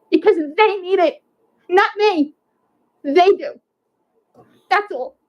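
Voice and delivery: begging, voice lifting and straining; getting emotional. Real, not acted. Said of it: "I'm sorry if I'm getting emotional".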